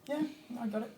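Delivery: high, loud, laughing "Garfield" for "Gareth"; mock confident foreigner. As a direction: proudly say "Garfield" thinking it's right. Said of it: "they're just like".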